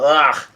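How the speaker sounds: half-hearted groaning yell; mock yelled groan. King Bomb cries out as he runs, mock yelled groan. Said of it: "he yells out".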